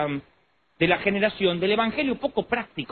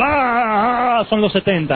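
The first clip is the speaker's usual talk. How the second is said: possessed man; much slower than usual. Retold or imitated. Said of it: "empezaba en el fondo".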